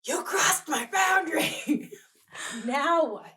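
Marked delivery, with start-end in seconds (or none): 0.0-1.9 slow, loud and higher, furious; mock-furious confrontation; angry. Shown as a demonstration. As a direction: spit it out in anger. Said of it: "what about when it's".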